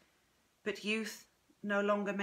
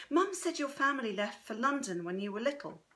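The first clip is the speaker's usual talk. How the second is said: slightly higher, curious granddaughter; lightly voiced inquisitive woman, higher; Chrissy, inquisitive; 4 semitones higher than usual. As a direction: press gently for family history.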